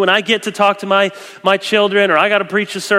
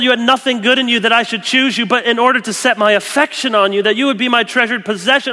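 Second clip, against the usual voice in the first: fervent God; 6 semitones higher than usual. Retold or imitated. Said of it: "he doesn't just yell out commands".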